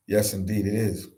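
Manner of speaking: talking through a yawn. Real, not acted. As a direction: yawn while saying it. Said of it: "I don't even know why I'm yawning".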